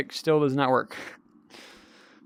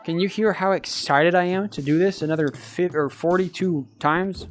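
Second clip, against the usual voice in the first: sarcastic drawl. Real, not acted. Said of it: "the enthusiasm in my voice".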